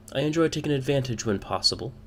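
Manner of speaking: a hint of a sly woman's lilt; woman admitting. Woman admits her taste to the party, lightly voiced. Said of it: "she admits".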